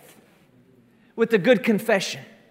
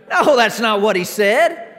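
laughing; 4 dB louder than usual. Real, not acted. Laughing after mock whine.

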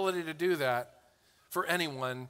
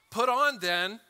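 "Put on then" lifted higher and louder, each word weighted; slow emphatic reading; 5 semitones higher, 4 dB louder than usual. Shown as a demonstration. Preacher modelling slow scripture reading for the congregation. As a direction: lean into "Put on then" with a rising lift. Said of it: "I'm gonna tell you how".

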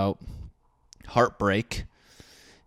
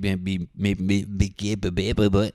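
stammering be be be like Porky Pig; jittery coffee stammer; Porky Pig stutter. Real, not acted. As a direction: stutter out the word like a cartoon pig. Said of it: "what am I, Porky the Pig?".

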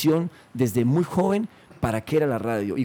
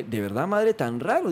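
very calm. Retold or imitated. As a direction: play it down, unbothered. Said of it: "Dije así como muy tranquilo, bajo perfil".

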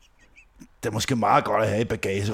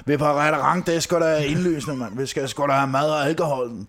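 annoyed inner rant; 4 semitones higher than usual. Retold or imitated. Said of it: "tænkte jeg".

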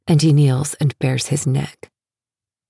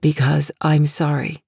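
hoarse, worn-out voice. Acted. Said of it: "he says hoarsely".

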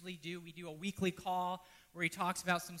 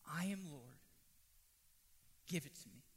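voice of Jesus; 7 semitones lower, 12 dB quieter than usual. Retold or imitated.

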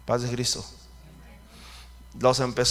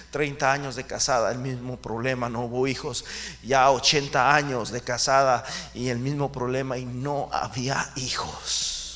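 ordinary talk, nothing marked

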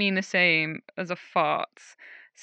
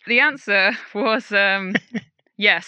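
laughing. Real, not acted. Laughing at the snake fart answer.

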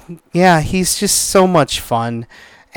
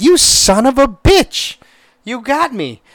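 grudging admiration; 8 semitones higher than usual. Retold or imitated. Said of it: "I'm like".

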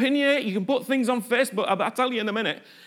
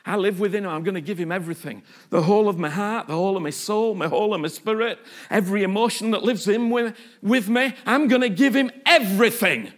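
low start building to firm devotion; David; 3 semitones lower than usual. Acted. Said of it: "David was going".

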